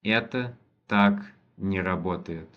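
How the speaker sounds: slow, careful first reading of the sentence; slow model reading. Shown as a demonstration. Teacher reading the Russian sentence slowly for a student, deliberate. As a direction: spell it out slowly for the learner. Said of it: "teacher models the Russian sentence".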